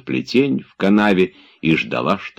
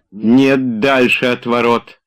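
quick, eager, higher and louder; brisk and lively; 7 semitones higher, 4 dB louder, slower than usual. A narrator's reading. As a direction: jump in eagerly. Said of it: "живо сказал Обломов".

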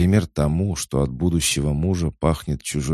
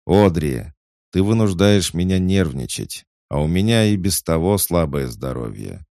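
louder, losing patience; irritated uncle; 5 semitones higher, 7 dB louder than usual. A narrator's reading. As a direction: scold her impatiently.

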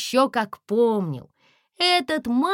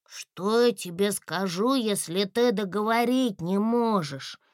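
ordinary delivery

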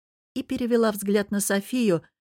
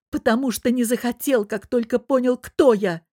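sarcastic; 6 semitones higher, 5 dB louder than usual. Acted. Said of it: "добавила с сарказмом".

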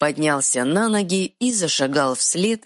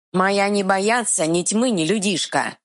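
troll growl; 6 semitones higher than usual. Acted. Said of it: "зарычал Эр".

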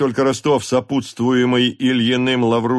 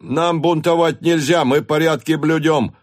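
Карп protesting; 6 semitones higher, 4 dB louder than usual. A narrator's reading. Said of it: "проговорил Карп".

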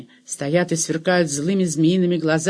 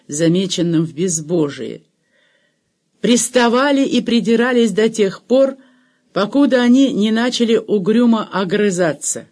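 usual speaking voice

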